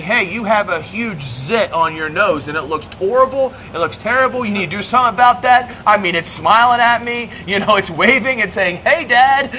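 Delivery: blunt, rising, teasing bluntness; blunt harsh truth. Pretend. Dad bluntly teasing his son about a zit, mock harsh. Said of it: "truthful by saying".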